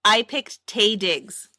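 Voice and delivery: slow, deliberate "Taye Diggs"; deliberate repeat. Real, not acted. Host repeats pick to co-host who missed it, slow and deliberate. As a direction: say "Taye Diggs" slowly so it gets heard.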